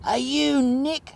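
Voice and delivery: high, slow call from across the road; a bloke bellowing a question across the street; loud call across the street. Retold or imitated. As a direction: call out his name from the middle of the street. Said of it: "this loud voice from the middle of the street yells out".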